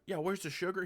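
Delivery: high, breezy mock cop asking for sugar; clueless cop. A clueless cop casually asks the intruder, mock breezy and high. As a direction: play the cop totally unbothered, chatting idly.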